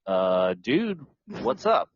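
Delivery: high-pitched, querying imitation of a buddy; mock puzzled challenge. Writing group to member without pages, mock puzzled. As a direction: call out a friend, pitch jumping up.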